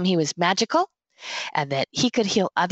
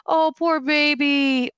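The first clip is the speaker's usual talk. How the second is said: put-on higher, slow cooing "Oh, poor baby"; pitying baby talk; 8 semitones higher, slower than usual. Owner cooing over a dog in a brace, higher and slow. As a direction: coo pityingly like over a hurt pet. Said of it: "in a brace and say".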